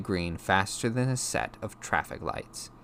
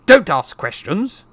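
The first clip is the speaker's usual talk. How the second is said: high, loud angry order; snap; 11 semitones higher, 13 dB louder, slower than usual. A narrator's reading. Uncle silencing nephew's question, angry snap. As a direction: snap back, slow and loud. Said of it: "snapped his uncle".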